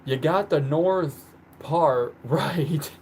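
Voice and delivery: slow, pointed concession; emphatic correction. Real, not acted. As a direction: spell it out slowly for them. Correcting a wrong guess of home state.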